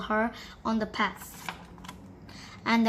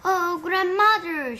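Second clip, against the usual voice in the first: slow, high, loud amazed call; 7 semitones higher, 6 dB louder, slower than usual. Acted. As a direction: marvel at grandmother's ears. Wondering at big ears.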